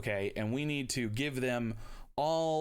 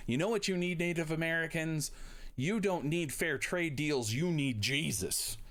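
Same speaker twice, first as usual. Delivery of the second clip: higher-pitched mock Southern preacher; Southern accent; 5 semitones higher than usual. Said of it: "don't say it with a Southern accent".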